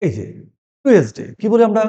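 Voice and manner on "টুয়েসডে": টুয়েসডে with a hard "t", "tu-es-de"; mispronounced Tuesday. Shown as a demonstration. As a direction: say টুয়েসডে loudly as spelled, "too-es-day". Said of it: "ভুল বলি". (টুয়েসডে-র ভুল উচ্চারণ, "টু-এস-ডে")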